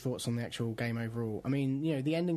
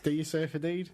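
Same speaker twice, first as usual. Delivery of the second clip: bad American accent; 3 semitones higher than usual. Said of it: "showing off our awesome American accents".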